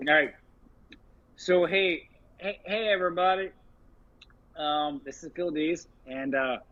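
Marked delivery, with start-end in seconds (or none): 1.4-6.6 talking around a lit cigarette; cigarette in mouth. Real, not acted. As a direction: speak with a cigarette between the lips. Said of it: "sorry, I'm smoking a cigarette right now".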